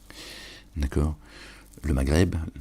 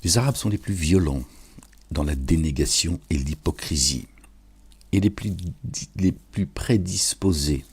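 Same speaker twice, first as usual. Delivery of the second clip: forceful verse recitation; 3 dB louder than usual. Real, not acted.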